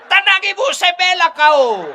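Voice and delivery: teriakan tinggi dan keras; berteriak membela. Retold or imitated. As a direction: sok jagoan membela wanita lain. Ustaz menirukan suami membela selingkuhan. (suami berteriak membela selingkuhannya dengan gagah)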